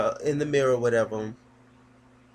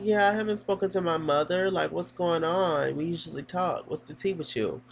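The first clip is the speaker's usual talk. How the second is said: high-pitched imitation of a college girl; educated college girl; 6 semitones higher than usual. Daughter calling from college, lightly affected high voice. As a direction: put on a higher, chatty student voice. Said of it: "Real educated boots".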